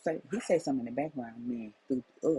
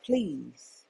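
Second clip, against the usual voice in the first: retold livid scolding; 3 dB louder than usual. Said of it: "I was so livid".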